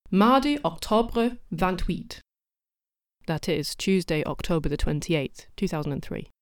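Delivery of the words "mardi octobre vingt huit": slow, deliberately bad French accent; hammy French accent, slightly raised pitch; heinous French accent. Shown as a demonstration. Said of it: "truly heinous French accent".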